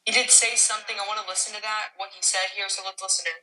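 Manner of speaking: delayed echo through a stream; canyon echo. Real, not acted. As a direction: sound like your own voice replayed with echo. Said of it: "now you can hear the echo".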